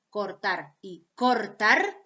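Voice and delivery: slow "cortar" tapped, then "cortar" with a rolled trilled r; two careful takes of "cortar", simple then multiple r; tap then trill, slowly. Shown as a demonstration. Teacher to class, contrasting the simple and multiple r. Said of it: "yo lo puedo pronunciar de las dos maneras".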